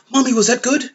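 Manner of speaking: mocking a childish hero asking mommy for everything; childlike voice. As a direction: play a needy small child calling for mommy. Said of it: "he was just so kid-like".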